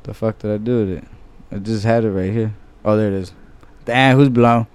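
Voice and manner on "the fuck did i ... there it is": soft mutter while looking for the file; muttering while searching. Real, not acted. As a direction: talk under your breath while searching. Host hunting for the right track.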